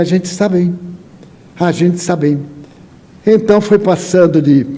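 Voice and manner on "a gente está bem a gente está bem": Spanish speaker. Retold or imitated. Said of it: "o espanhol dizia".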